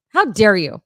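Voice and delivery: loud, hammed-up indignation; mock outrage. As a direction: play it as fake offended diva. Mock outrage, louder repeat.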